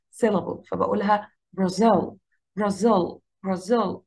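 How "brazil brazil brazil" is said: برازيل repeated as English bruh-ZIL; snatch the first syllable of برازيل, weight on ZIL; stress on second syllable. Shown as a demonstration. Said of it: "فبيكون هو ده الستريس". (برازيل بستريس على المقطع التاني)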